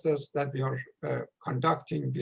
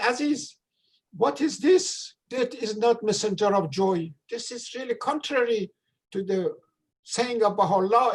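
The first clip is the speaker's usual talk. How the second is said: higher, astonished pitch; shocked question; 5 semitones higher than usual. Retold or imitated. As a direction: retell the shock, voice jumping up. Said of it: "So I was quite shocked".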